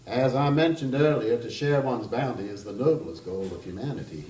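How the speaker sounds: put-on a charming Kentucky gentleman teasing the table, Kentucky accent; playful Southern Kentucky voice, loud start. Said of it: "I'm going to attempt that kind of accent".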